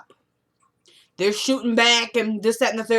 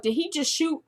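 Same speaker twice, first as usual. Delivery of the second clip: stunned disbelief; 6 semitones higher than usual. Retold or imitated. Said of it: "I was like".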